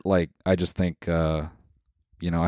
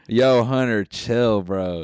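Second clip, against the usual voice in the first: laid-back bro Jesus, a bit higher; frat bro; 3 semitones higher, much slower than usual. Pretend. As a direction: chill bro talk. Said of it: "Jesus is like".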